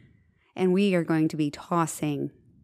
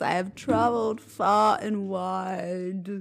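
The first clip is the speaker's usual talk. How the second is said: grand knight; 2 semitones higher, slower than usual. Retold or imitated. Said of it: "this is how he walks into the house".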